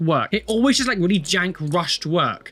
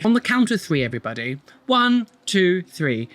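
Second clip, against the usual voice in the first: mock count-in. Calling out a count to everybody.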